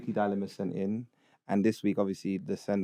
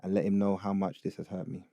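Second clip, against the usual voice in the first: put-on Ugandan accent. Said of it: "read it in a Ugandan accent".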